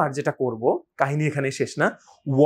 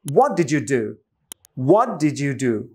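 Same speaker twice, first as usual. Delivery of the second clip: linked WHAT DID YOU DO with a lively question tune; native-style tune on "what did you do"; changed tone; much slower than usual. Shown as a demonstration. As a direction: punch "what", then run into "di-joo do". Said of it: "টোনটাও যদি একটু change আনি".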